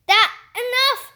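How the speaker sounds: high, loud shriek. Acted. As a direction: shriek it in outrage. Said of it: "Mister Pennyworth shrieked".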